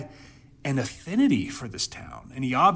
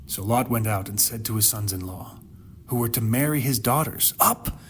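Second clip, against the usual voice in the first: measured, solemn reading of the Bible passage; hushed, dramatic scripture reading. Acted. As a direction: read the verses like a storyteller at the pulpit. Reads scripture passage aloud.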